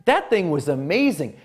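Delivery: high, slow, wide-eyed amazement; stretched-out wow of a delighted fan; amazed gush. Retold or imitated. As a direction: gush like you just saw something incredible. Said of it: "something like".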